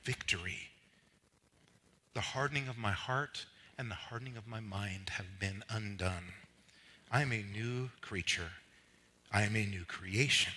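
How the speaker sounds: measured, weighty creed with pauses; declaration reading. Real, not acted. Preacher reads who he is in Christ, solemn declaration. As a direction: let each line settle before the next. Reads list of identity statements.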